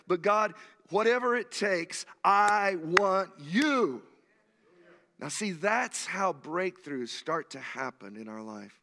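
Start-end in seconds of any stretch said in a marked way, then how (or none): 0.1-4.0 fervent prayer. Retold or imitated. Dad's prayer of surrender.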